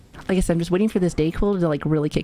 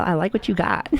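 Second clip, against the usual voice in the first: flirty. Pretend. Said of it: "repeat, flirty".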